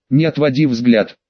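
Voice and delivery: low, hollow otherworldly command; потусторонний голос. Acted. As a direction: speak as an echoing ethereal skull. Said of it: "приказал потусторонним голосом череп". (потусторонний голос черепа)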